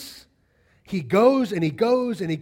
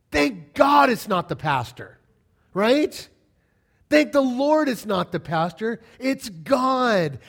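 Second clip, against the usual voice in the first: emphatic proclaim; 3 semitones higher, 5 dB louder, slower than usual. Real, not acted. Preacher exclaiming about pastor.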